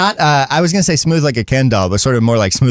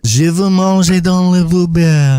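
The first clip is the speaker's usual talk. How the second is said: robotic translator voice; 5 semitones higher than usual. Retold or imitated. Imitating slowed Google voice.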